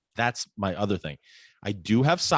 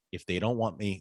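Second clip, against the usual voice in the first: indignant; 2 semitones lower, 5 dB quieter than usual. Retold or imitated. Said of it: "this is, like, indignant".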